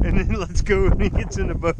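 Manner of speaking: laughing loud through the words. Real, not acted. Angler laughing to partner as the fish comes in. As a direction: laugh while you give the plan.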